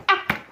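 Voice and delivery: real startled little cry; startled gasp. Real, not acted. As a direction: cut yourself off with a small startled "ah!". Startled by insect while recording.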